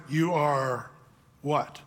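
quiet, low, bewildered mock question; half-voiced inner confusion; puzzled Moses. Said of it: "I can almost hear Moses in his mind".

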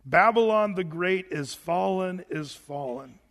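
a herald's slow cry of doom; strong proclaiming voice. Acted. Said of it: "cried mightily with a strong voice".

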